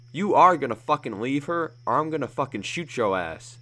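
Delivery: loud furious ultimatum; said loudly. Acted. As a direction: hammer the ultimatum home. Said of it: "Joseph said loudly".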